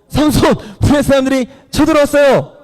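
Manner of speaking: high-pitched urgent calling out; acted alarm call. Delilah warning Samson of attackers to test him, high alarm call.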